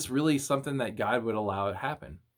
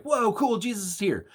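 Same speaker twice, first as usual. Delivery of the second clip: casual mock amazement; excited apostles; 7 semitones higher than usual. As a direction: react like a wowed kid seeing Jesus. Apostles react to seeing Jesus.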